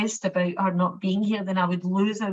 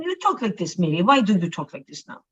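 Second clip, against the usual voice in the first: mimicked Maltese accent; faster than usual. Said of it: "her funny Maltese accent".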